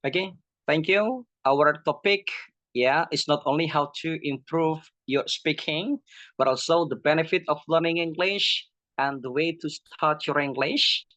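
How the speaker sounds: lightly staged public-speaking delivery; demonstrated presenter style. Shown as a demonstration. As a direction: introduce a topic to an audience. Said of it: "like this one".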